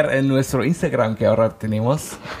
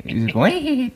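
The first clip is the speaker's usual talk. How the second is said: witch cackle; 12 semitones higher than usual. Retold or imitated. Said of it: "de bruja".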